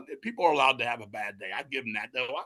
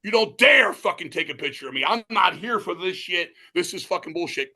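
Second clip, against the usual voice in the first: mock angry rant; 3 semitones higher, 3 dB louder than usual. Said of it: "Ace stops everything, throws the thing".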